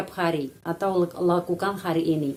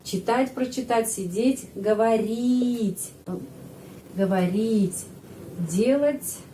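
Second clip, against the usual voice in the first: slow demo; slower than usual. Shown as a demonstration.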